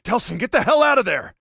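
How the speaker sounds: high, loud, alarmed shout; urgent shouted warning. Acted. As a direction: yell it like he must run now. Urgent warning to Delson in danger.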